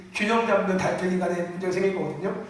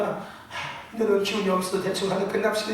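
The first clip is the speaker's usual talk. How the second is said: listless, drained; 2 semitones lower, 3 dB quieter than usual. Acted. Preacher mimics himself with no energy before the congregation, listless. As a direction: wrap it up half-heartedly, out of energy. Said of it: "기운 없다고 막 기운 없어가지고".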